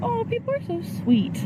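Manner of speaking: high, sing-song gush of delight. Retold or imitated. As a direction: coo it like you're touched. Quoting herself gushing over compliments.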